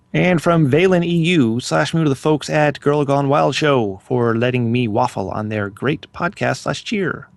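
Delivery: slow, measured announcer-style read; shout-out read. Acted. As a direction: read the listener's message out slowly. Reads out a listener shout-out.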